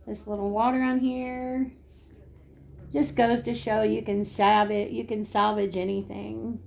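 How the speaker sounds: talking while chewing gum. Real, not acted. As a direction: chew gum as you speak. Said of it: "I guess I can't talk and chew gum at the same time".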